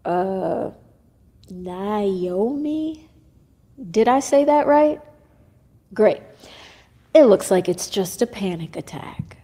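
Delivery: lightly voiced, unconcerned doctor; nonchalant doctor. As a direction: casually brush the patient off. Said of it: "said in a nonchalant tone".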